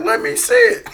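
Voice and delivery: high, loud mock yell; retold brazen demand. Man imitating drunk uncle's demand to Mark, loud mock yell.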